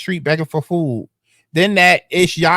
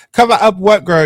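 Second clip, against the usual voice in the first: loud, higher, incredulous snap back; indignant retort; 4 semitones higher, 6 dB louder than usual. Real, not acted. Reading a friend's text, answers it indignantly. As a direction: throw the accusation right back at her.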